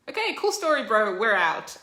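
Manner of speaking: cool story bro, we're leaving; dismissive neighbours. Retold or imitated. Neighbours brushing Stan off.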